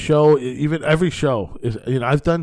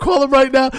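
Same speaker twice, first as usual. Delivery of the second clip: urging command; 11 semitones higher, 7 dB louder than usual. Retold or imitated. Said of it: "I'm like".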